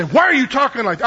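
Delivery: disapproving challenge, acted out; judgmental. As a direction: imitate a judgmental churchgoer, accusingly. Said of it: "I mean, very judgmental".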